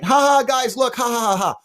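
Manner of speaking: high, hammed-up fake laughing; mock performer's laugh. Mocking a clown who makes people laugh, high fake laughter. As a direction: mimic a clown playing for laughs. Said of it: "He makes people laugh".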